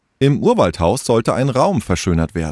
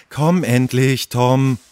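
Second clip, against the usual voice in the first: slightly higher, impatient call; 4 semitones higher, slower than usual. Acted. Tessa waits at the door for Tom, impatient. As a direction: hurry a dawdling friend along. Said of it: "Tessa stand schon ungeduldig".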